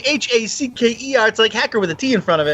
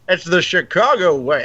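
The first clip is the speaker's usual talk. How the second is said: Sean Connery impression; 2 semitones lower than usual. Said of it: "Sean Connery ... in Chicago".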